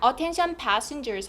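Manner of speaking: "attention passengers" falling at the end; falling intonation. Shown as a demonstration. Teacher models an airport announcement, falling on "passengers". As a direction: let "passengers" drop to close the call. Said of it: "하면서 억양 내려가고요".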